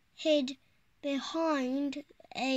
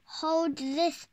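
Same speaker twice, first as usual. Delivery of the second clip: shouting; 2 semitones higher, 4 dB louder than usual. Acted. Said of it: "she shouted".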